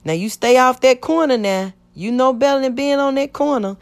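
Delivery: mock-scold her like a joking neighbor; teasing warning, pitched well up. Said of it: "joke with my mama".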